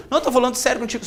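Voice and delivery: acting out a jittery plea; nervous pleading. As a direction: plead lightly, nerves showing. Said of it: "só que eu tava nervoso".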